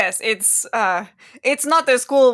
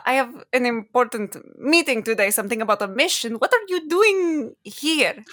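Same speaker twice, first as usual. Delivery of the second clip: put-on lightly held accent, puzzled at the end; Zin's accent; 2 semitones higher than usual. Zin asking why J-Rock showed up, faintly accented. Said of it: "trying to get the accent back".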